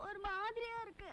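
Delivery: soft, hurting voice; quiet complaint through discomfort; in pain. Acted. Patient answering during a sprain massage, in pain. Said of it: "ரொம்ப வலிக்குது".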